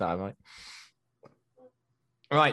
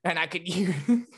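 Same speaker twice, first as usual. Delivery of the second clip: lightly voiced Sean, grandly offering help; mock-solemn offer, breaking into laughs; Sean impression; 4 semitones higher than usual. Sean offers Ethan his Pokeball, mock grand voice. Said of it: "my Sean impression".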